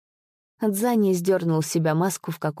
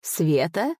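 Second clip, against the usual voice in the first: «Света?» echoed with a rising, mocking question tune. Spirit echoing the master's plea, mocking rising question. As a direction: toss «Света?» back as a scoffing question. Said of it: "пуще прежнего рассмеялся голос".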